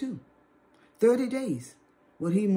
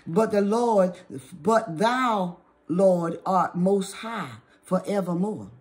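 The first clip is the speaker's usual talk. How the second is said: scripture reading. Acted. Preacher reading Psalm ninety-two to the congregation, scripture reading. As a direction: read the verse out solemnly, drawing out key words.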